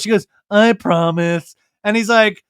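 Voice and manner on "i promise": slow, begrudging mumbled vow; mock-grudging promise. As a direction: agree reluctantly, dragging it out. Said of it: "begrudgingly goes".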